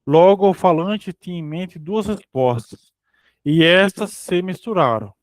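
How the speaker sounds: measured book-reading delivery; reading aloud. Acted. Reading a psychoanalysis text to a study partner, read aloud. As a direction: read out a scholarly text, evenly phrased.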